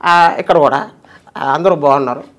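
lightly voiced fond greetings; a hint of the master greeting everyone; affectionate rambling impression; imitating Rakesh Master. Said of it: "అది Rakesh master గారిది".

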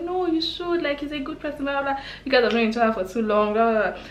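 a hint of a persuasive girlfriend; imitating best friend. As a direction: play the friend coaxing her into it. Best friend urges her to date.

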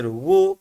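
Wu said with a thick, backed sound; thick-voweled Wu; thick letter sound. Shown as a demonstration. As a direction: make Wu heavy, not thin. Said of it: "kalın".

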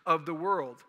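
mock Roman official waving it away; dismissive rulers. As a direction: sneer it like a ruler shutting it all down. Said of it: "They were like".

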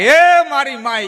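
high, loud, drawn-out cry; imitated yell. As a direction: yell it long and high, imitating a man crying out. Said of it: "Manbhai રાડી નાખે". (લાંબી, ઊંચી રાડ પાડવાની નકલ)

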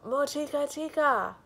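high, booming ogre cry; loud ogre call. Acted. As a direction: bellow the name out across the village. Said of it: "came striding along, crying".

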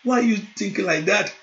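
tender fatherly calm; gentle reassurance. Retold or imitated. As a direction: comfort a worried child.

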